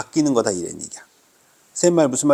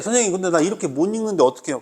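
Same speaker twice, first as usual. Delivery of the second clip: quick, higher-pitched student asking; imagined student question; 4 semitones higher, faster than usual. Acted. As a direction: lightly voice a student's worry. Teacher voices a worried student. (학생 흉내로 빠르고 높게 묻기)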